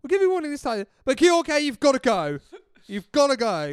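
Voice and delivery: loud, high, nervous ref voice; timid referee. Retold or imitated. Referee lets Tony Adams off but sends Hadji off. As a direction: squeak it like a scared ref.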